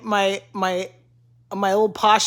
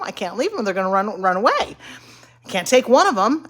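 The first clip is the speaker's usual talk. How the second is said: mock panic. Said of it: "I'm like".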